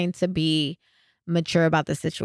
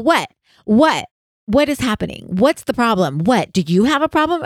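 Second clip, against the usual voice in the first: louder, rising confrontational cashier; mock yelling cashier; 3 semitones higher, 4 dB louder than usual. Angry cashier confronting the family, loud. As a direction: bark it at the customer. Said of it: "and she's all".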